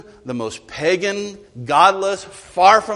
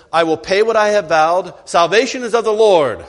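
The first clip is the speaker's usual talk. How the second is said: ringing, louder declaration of the vow; Jonah's loud vow; loud proclamation; 4 semitones higher, 7 dB louder than usual. Acted. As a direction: proclaim it like a final triumph. Jonah's imagined final words.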